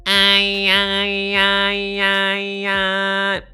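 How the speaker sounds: high, loud nasal I; bright annoying nasal whine; really nasal. Shown as a demonstration. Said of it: "say the following really nasally".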